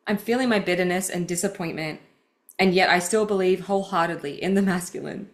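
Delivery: measured, earnest read of personal writing; deliberate, heartfelt book reading; reading aloud. Acted. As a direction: read your own confession out with care. Reads her book passage aloud.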